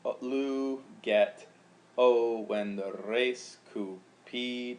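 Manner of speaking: Latin split into syllables, each one beat; slow scansion; scanned syllables. Shown as a demonstration. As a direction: read it out syllable by syllable. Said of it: "That would be the rhythm of the line".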